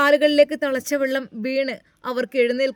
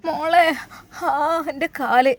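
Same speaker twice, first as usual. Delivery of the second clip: crying out; 3 semitones higher, slower than usual. Acted. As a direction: cry out for help through tears. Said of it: "വല്യമ്മയുടെ കരച്ചിൽ കേട്ടാണ്".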